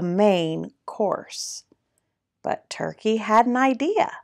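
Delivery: animated picture-book narration, key words punched; lively storytime reading with swooping pitch; reading to children. A narrator's reading. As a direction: read it like a playful storyteller.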